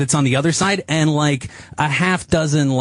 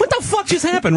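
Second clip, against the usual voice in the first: retold shock. Retells his shock at broom attack.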